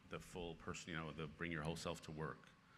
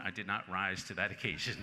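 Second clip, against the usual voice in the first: rueful laugh through the line, louder; 6 dB louder than usual. Real, not acted. Confessing to the audience he was rude, laughing. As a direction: admit it while laughing at yourself.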